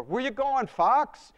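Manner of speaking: high, loud shout across the room; calling after. Retold or imitated. Friends shout after him at the door, loud high call.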